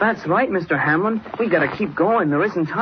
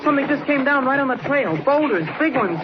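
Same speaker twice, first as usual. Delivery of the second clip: high, panicked pleading; a boy seeing boulders fall; scared, high-pitched alarm; frightened; 7 semitones higher than usual. Acted. Boulders falling onto the trail.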